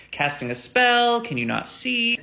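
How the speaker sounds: high and loud, dragging slowly; mock alarm. Passenger freaking out over a creepy old woman. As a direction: squeal it out as if spotting a witch.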